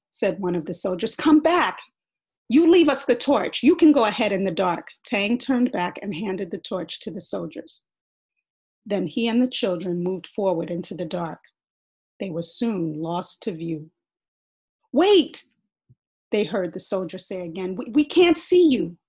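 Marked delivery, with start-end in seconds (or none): 1.2-4.9 loud, higher, panicky call. Acted. Soldier demands torch. 14.9-15.5 loud, higher, panicky call. Acted. Soldier calls in dark. 17.8-19.0 loud, higher, panicky call. Acted. Soldier calls in dark.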